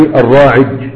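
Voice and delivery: الراعج ending in ج; ي of الراعي said as ج; Quda'a 'aj'aja. Shown as a demonstration. Teacher showing Quda'a dialect, ya turned to jim. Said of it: "يجعلون الياء الواقعة بعد عين".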